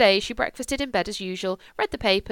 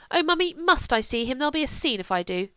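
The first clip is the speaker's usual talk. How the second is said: whining daughter; 5 semitones higher than usual. Acted. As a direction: beg to be let off. Julia whining to mother.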